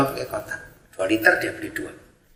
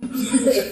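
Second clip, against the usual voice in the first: amused laugh; 11 semitones higher, 4 dB quieter than usual. Real, not acted. Preacher laughs at joke.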